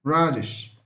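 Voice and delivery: radish with English R, "RAD-ish"; correct English radish. Shown as a demonstration. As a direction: stress the first syllable of radish, English R. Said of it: "Não é radish, não".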